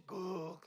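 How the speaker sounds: drawn-out mock burp; imitated burp. Woman burping at all hours, imitated burp. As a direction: burp it out as a noise. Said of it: "트름 얼굴에다 쏘는 게".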